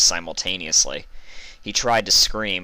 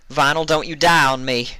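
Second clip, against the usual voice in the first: higher, louder urgent shout; 8 semitones higher, 7 dB louder than usual. Acted. Applejack shouts at the dying Vinyl, urgent and loud. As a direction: yell to keep her awake. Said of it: "shouted Applejack".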